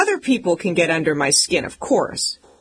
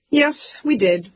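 higher and slow, smugly unbothered; mock cool brother; 7 semitones higher than usual. Little brother insisting they won, high slow mock cool. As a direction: say it slow and sure of yourself. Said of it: "He was so dang cool".

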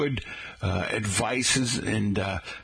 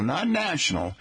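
"not national" lifted higher to set it apart; stress on not national; 6 semitones higher than usual. Shown as a demonstration. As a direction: lean on "not national" as a contrast. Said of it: "but International Coffee Day".

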